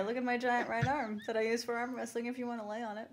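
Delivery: a lightly voiced sleazy Sly, soft; mock Sly come-on. Cohost riffing on Sly wooing the kid, lightly soft and sleazy. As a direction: offer the arm in a hushed, cozy tease.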